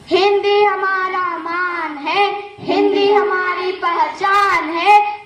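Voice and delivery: slow, drawn-out patriotic slogan; measured ceremonial chant; slogan recital. Acted. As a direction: proclaim it slowly, stretching each phrase. Closing slogan of the skit.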